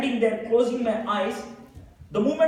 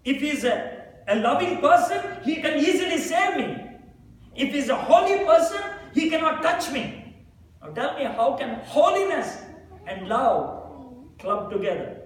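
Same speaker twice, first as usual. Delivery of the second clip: heated argument; 5 semitones higher than usual. Retold or imitated. Arguing hotly with friend about Jesus.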